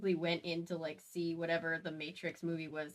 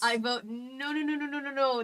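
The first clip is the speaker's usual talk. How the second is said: raised, repeated no; loud protest; 6 semitones higher, 7 dB louder than usual. Real, not acted. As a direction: protest loudly. Protesting the filthy chapter.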